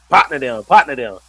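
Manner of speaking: imitated AAVE, r dropped from "Partner"; mom teaching Ebonics. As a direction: punch out the slang as a lesson. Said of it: "trying to teach her all these random things".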